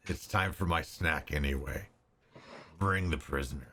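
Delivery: low, bored dragon; hungry dragon giving orders. Acted. Dragon speaking to hobgoblin.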